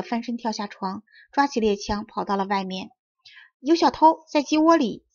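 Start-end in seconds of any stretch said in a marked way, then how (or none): 3.6-5.1 high, loud alarm call; urgent report. Acted. Puppet reports thieves in the henhouse, high urgent call. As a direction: raise the alarm, pitched up. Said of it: "匹诺曹报告说".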